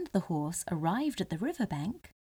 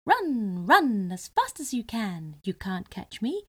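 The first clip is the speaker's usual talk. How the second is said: gingerbread man voice. Acted. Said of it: "he kept running and called".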